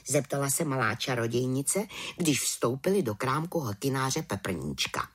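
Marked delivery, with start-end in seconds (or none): none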